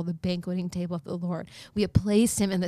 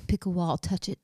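whispered instruction; 2 semitones lower, 5 dB quieter than usual. Retold or imitated. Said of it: "She said".

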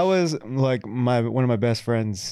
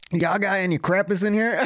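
high, slow Southern twang; Southern US accent; 7 semitones higher, slower than usual. Retold or imitated. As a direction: drawl it like a Southern tourist, "crepes" in two syllables. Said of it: "another Southern family".

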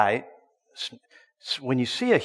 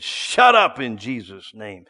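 stern rebuke; 3 semitones lower, 6 dB louder, slower than usual. Retold or imitated. Retold rebuke repeated.

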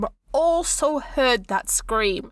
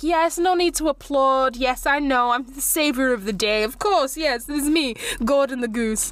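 smug goose. Acted. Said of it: "lifting his chin up and everything".

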